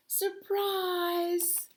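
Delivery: high hushed reveal; whispered surprise. Acted. Friends revealing the surprise party to the bear, in a high whisper. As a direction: whisper it like a secret.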